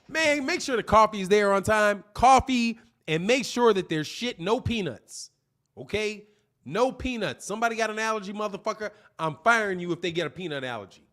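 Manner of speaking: a hint of a demanding boss ordering around; bossy boss. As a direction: bark orders about coffee and peanuts. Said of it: "that's how I would talk to you".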